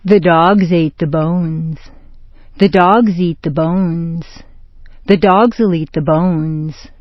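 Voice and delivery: "dogs" and "bones" stressed, verbs light; stress the nouns. Shown as a demonstration. Teacher models noun stress for the learner. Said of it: "This is how it sounds".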